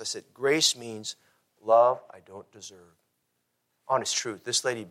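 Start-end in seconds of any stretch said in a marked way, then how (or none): 0.3-2.9 slow sincere. Retold or imitated. Pastor defining grace slowly.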